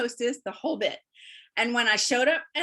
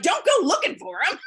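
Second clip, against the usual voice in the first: retelling the husband's warning higher, louder, through a laugh; 8 semitones higher, 5 dB louder than usual. Retold or imitated. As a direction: tease her while laughing. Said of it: "my husband's laughing".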